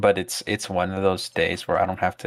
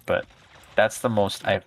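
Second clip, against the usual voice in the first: ordinary talk, nothing marked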